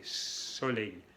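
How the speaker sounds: "soleil" with its first S held long; clear initial S. Shown as a demonstration. Teacher repeating for learners, long initial S on "soleil". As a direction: stretch the S that starts "soleil". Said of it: "la S".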